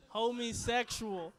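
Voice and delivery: drawn out slowly through a laugh. Real, not acted. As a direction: savor the word "Homosexual" slowly while laughing. Slowed laughing repeat.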